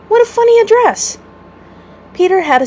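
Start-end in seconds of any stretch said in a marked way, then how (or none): 0.1-1.2 much higher, louder amused exclamation; delighted by a funny address, higher and louder; amused surprise. A narrator's reading. Wendy amused by odd address.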